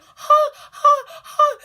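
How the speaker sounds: high, loud breathless huhs; starstruck gasping. Retold or imitated. Fan gasping at meeting a singer, high and loud. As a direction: gasp in awe at your idol.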